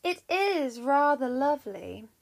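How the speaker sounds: knowing smirk in the voice. Acted. Juno toys with guilty Jupiter, smirking. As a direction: admire it with mild sly relish. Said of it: "Juno smirked".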